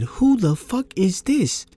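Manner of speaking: high-pitched outraged yell, retold; incredulous angry shouting at the intruder; retold furious yelling. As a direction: demand who's in your bed, voice climbing high. Confronting the man in his bed.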